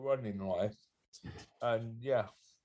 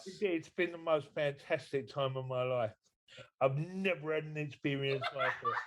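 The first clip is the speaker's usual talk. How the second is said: mock emotional. Shown as a demonstration. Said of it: "say that with emotion, please".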